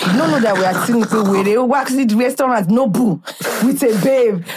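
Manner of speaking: put-on animated storytelling in thick Nigerian accent; deep Nigerian accent. Recounting a restaurant wait to a friend, deep Nigerian accent. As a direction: play up a heavy Nigerian accent. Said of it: "In my most deep Nigerian accent".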